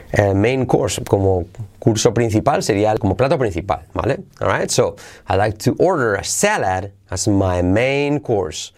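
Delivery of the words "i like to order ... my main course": measured, drawn-out example sentence; slow model. Shown as a demonstration. Teacher modelling sentence for class, slow delivery. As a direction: say it slowly for learners to copy.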